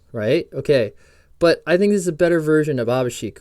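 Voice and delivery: normal talking voice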